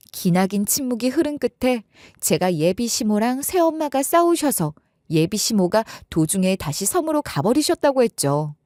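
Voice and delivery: ordinary delivery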